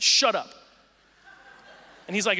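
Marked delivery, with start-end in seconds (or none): 0.0-0.5 louder, cutting order; mock frat command. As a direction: shut him down like a hazing senior. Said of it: "And I said".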